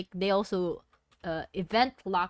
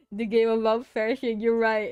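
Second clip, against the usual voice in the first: excited; 3 semitones higher, 7 dB louder than usual. Real, not acted. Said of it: "so flustered".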